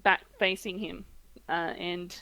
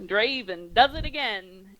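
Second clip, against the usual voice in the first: boastful executioner; 4 dB louder, slower than usual. Acted. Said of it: "a great bellowing laugh, and he says".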